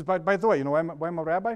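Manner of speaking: lightly imitated Jewish comedian; Jackie Mason. Preacher retelling the comedian's rabbi joke, lightly imitated comic voice. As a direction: set up the joke like a stand-up comic. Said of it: "he could talk like this".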